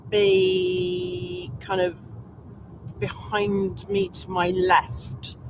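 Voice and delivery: very slow, drifting off mid-thought; trailing off. Real, not acted. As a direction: let the words slow and trail away.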